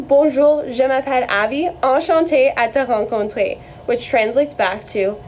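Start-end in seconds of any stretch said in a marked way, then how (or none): 0.0-3.6 Enchanté à te rencontrer in careful French sounds; French phrase demo. Shown as a demonstration. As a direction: model Enchanté à te rencontrer for learners. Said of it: "let's put that together one more time".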